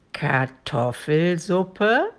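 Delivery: very slow, drawn-out dragon voice; slow, sinister questioning with a final rise; menacing dragon question. A narrator's reading. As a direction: stretch it out in monstrous disbelief. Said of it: "lächelte dabei in einer greulichen Weise".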